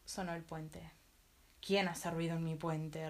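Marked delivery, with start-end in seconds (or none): 1.6-3.1 slow, low troll roar; troll under the bridge challenging the little goat, slow low roar. Acted. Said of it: "rugió el ogro".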